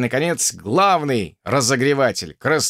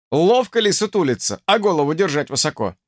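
raised, teasing officer question; mocking drill sergeant; 4 semitones higher than usual. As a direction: needle the cadet like an officer.

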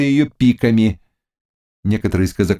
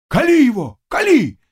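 high shout of "Кали его"; cossacks shouting; 13 semitones higher than usual. A narrator's reading. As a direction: yell "Кали" at him. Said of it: "кричали казаки".

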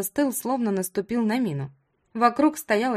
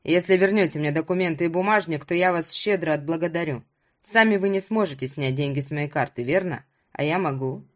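persuasive hero in a lower voice; lowered voice of a man negotiating; lightly voiced Ruslan, bargaining; 4 semitones lower than usual. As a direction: lightly play a man making an offer.

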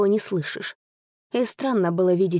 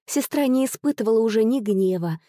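usual speaking voice

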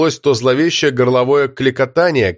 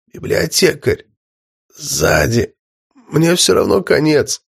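weakening voice; 3 semitones higher, slower than usual. Acted. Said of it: "попросил слабеющим голосом Данила".

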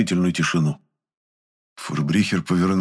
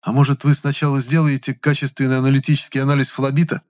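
calm; 7 semitones higher, 4 dB louder than usual. A narrator's reading. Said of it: "спокойно сказал я".

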